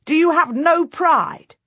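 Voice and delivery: very high, loud, slow furious cry; raging outburst. A narrator's reading. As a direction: let the rage break the voice, slowly. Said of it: "his voice cracking with rage".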